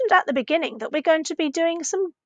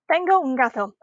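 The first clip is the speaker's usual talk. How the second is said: "Tengo un gato" coming down on "gato"; "Tengo un gato" with no question lift at the end; statement intonation. Shown as a demonstration. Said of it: "not a question".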